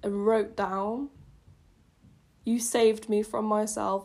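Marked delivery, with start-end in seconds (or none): 2.4-4.0 slow, mock-earnest reread; mock dramatic reread. Shown as a demonstration. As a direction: read it back with distaste. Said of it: "I hate that".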